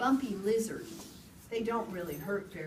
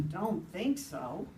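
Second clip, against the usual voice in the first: grumpy rabbit; 3 semitones lower, slower than usual. Acted. Rabbit refuses the owl.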